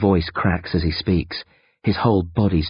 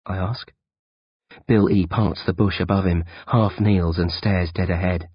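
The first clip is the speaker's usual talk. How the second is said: plain reading voice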